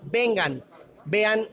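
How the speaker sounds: lightly voiced drill sergeant; Sargento Mena. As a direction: announce it like the army sergeant from the film. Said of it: "ahora sí como sargento".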